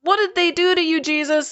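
high-pitched imitated indignation; angry. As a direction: act out outraged followers, pitch well up. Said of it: "They're angry".

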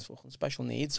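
under his breath. Retold or imitated. Comic muttering an insult at a stranger, softly. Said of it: "Under my breath".

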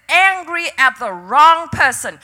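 firm, emphatic divine rebuke, lightly voiced; preacher quoting God with force; the Lord's rebuke. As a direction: press the words home as God's correction. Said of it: "He said".

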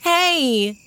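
high, loud echo of a cry; bright-eyed child's loud exclamation; surprised echo. A narrator's reading. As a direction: repeat the discovery in high-pitched surprise. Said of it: "repeated Violet".

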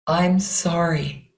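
slow, heartfelt apology; heartfelt water voice. Shown as a demonstration. Teacher modelling a sincere apology, water voice. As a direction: let the apology flow from the heart. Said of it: "things your heart might want to say".

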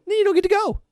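sharp high stern refusal; stern gatekeeper. Retold or imitated. Gatekeeper turning away an anti-masker, stern and high. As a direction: shut him down at the gate.

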